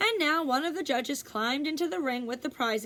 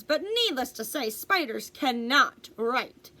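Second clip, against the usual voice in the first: a judge's pompous public address; formal speech; 3 dB louder than usual. Acted. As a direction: proclaim it like an official speaking to a fair crowd. Judge's speech read aloud.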